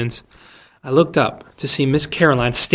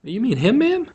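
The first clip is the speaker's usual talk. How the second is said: higher, gently questioning voice; gentle; 10 semitones higher than usual. A narrator's reading. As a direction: ask the frightened teacher carefully. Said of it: "he said gently".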